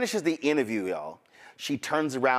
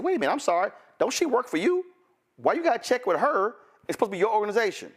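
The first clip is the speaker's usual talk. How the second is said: higher and pushy, racing at the end; incredulous mockery; 7 semitones higher, much faster than usual. Reporter challenging Charlie Kirk, incredulous and mocking. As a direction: needle him, mock disbelief.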